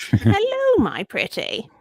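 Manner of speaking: a hint of a cackling witch; lightly voiced witch greeting. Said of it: "that witch voice".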